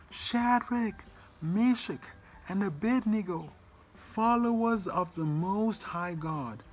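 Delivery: high-pitched shout calling the three men out of the fire; king shouting. Acted. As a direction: call them out like a king at the doorway. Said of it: "shouted in the doorway".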